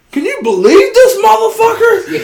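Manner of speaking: high, loud, drawn-out disbelief; slow high-pitched rant; retold outrage. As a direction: vent in comic indignation. Retold outburst to his wife.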